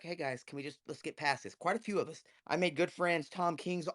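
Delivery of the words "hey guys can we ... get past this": keeping cool. Retold or imitated. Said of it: "keep my cool and be Shane".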